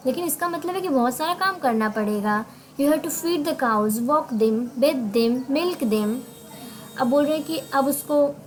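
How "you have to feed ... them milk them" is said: slow, careful reading aloud to learners; deliberate classroom read-aloud; slow story reading. Acted. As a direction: read each English word out slowly for the class. Teacher reads story text slowly.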